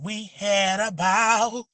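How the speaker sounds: slow, drawn-out catchphrase with a rising end; the right way. Shown as a demonstration. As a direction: stretch every word and lift the end. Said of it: "That's like".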